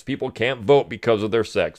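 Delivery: usual speaking voice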